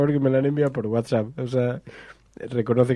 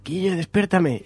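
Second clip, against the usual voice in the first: slow, higher, strained plea from a frozen body; 6 semitones higher than usual. Retold or imitated. Paralysed man begging his friend to wake him, slow, strained. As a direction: beg to be woken, barely able to move.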